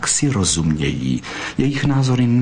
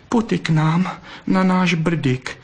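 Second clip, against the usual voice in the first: higher, slower coaxing plea; begging; 9 semitones higher, slower than usual. A narrator's reading. Vixen begging the fox to come to her burrow, coaxing. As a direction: coax him to come home. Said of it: "žadonila".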